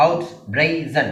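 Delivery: ഔട്ട് ബ്രേസൺ split into three separate syllables. Shown as a demonstration. Teacher counting syllables, ഔട്ട് ബ്രേസൺ in three parts. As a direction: break ഔട്ട് ബ്രേസൺ apart evenly. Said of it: "മൂന്ന് syllable".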